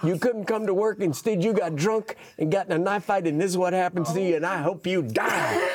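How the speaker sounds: imitating scolding old lady. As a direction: tear into him for lying. Old lady scolding man in hospital.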